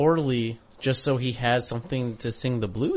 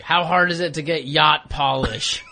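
mock rant; 3 semitones higher, 3 dB louder than usual. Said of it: "He's like".

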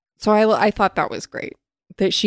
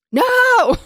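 very high, loud mock cry; hammed-up high-pitched holler; calling out; 7 dB louder than usual. A narrator's reading. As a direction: yell it out theatrically. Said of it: "called Press".

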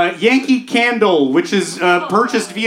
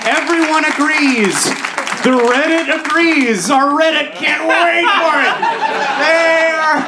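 mock excited; 9 semitones higher than usual. Gushing mock enthusiasm.

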